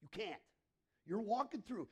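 normal talking voice

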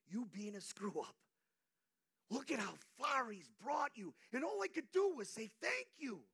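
a fervent preacher's loud line; preaching at full force. Acted. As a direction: drive it home to the congregation.

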